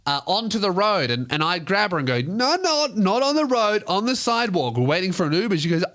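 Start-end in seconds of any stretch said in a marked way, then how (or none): 2.2-5.5 put-on high, urgent coaxing of a drunk friend; urgent pleading. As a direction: steer her back, alarmed but kind. Pulling drunk girl off road.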